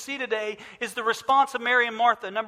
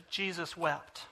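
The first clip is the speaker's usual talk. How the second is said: hushed reading; 5 semitones lower, 11 dB quieter, slower than usual. Real, not acted.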